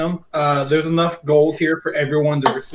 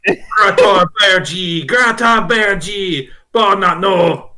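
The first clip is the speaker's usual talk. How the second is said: goblin speech; 6 semitones higher, slower than usual. Acted. GM voices the goblin's answer.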